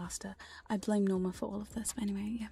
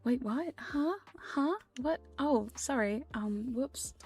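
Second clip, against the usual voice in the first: lightly feigned innocence and confusion; mild mock-sheepish apology; playfully coy. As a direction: act a touch flustered, as if caught out. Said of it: "supposed to be all coy and be like".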